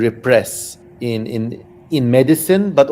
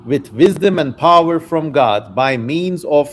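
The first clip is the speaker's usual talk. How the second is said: put-on raised, declaiming reading of old scripture; dramatic reading; 3 semitones higher than usual. Streamer reads Solomon's testament to chat, declaiming. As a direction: read it out like a solemn proclamation. Reads ancient text aloud.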